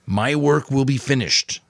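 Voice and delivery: slow, gentle reply; a mentor gently soothing his young pupil. A narrator's reading. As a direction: soften it like a kind old mentor. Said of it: "the giver had replied gently".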